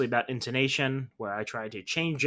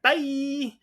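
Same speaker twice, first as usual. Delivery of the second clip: high chirpy sign-off; mock hasty goodbye; 4 dB louder than usual. Embarrassed drunk man fleeing the conversation, high pitched. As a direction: blurt it and flee. Imagined embarrassed exit line.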